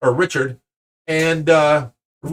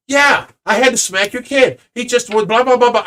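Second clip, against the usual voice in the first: raised, higher-pitched retort in a retold quarrel; mock indignant; 5 semitones higher than usual. Stranger justifying smacking the kid to his father, mock indignant.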